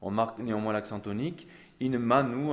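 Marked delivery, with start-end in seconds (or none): 1.8-2.5 manu pulled long on the double note; stress on manu. Shown as a demonstration. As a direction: lean into manu. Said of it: "on va être attiré à chaque fois". (appuyer sur « manu », note doublée)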